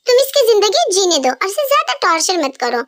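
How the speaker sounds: usual speaking voice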